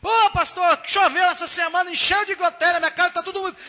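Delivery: a mock whiny member griping to the pastor; complaining church member.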